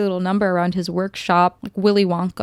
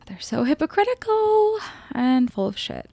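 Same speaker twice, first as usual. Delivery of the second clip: snide whispered aside, higher; 8 semitones higher than usual. Real, not acted. Reviewer whispering a jab at the characters to viewers.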